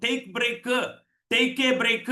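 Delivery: ടേക്ക് and ബ്രേക്ക് both stressed heavily; learner's ടേക്ക് എ ബ്രേക്ക് with every word weighted; misplaced stress. Shown as a demonstration. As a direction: give ബ്രേക്ക് a full, needlessly stressed ending. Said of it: "ആവശ്യമില്ലാത്തവിടത്തൊക്കെ ഊന്നൽ കൊടുക്കും".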